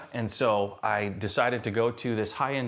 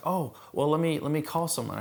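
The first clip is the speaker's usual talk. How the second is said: higher, mildly flustered receptionist; mildly nervous; 5 semitones higher than usual. Retold or imitated. Receptionist caught out by a customer's question, mildly nervous. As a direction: imitate a slightly thrown receptionist. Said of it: "she just kinda nervously looked at me".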